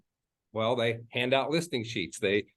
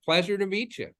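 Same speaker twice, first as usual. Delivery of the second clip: slow warm pleasure to meet you, higher pitch; slow and deliberate; 6 semitones higher than usual. Shown as a demonstration. Realtor greeting a buyer by name, slowly. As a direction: draw each word out gently. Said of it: "And, like, slow it down".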